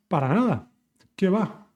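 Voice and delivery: "Para nada" said firmly, stress on "nada"; firm and emphatic. Shown as a demonstration. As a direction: dismiss the idea with emphasis. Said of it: "That's emphatic".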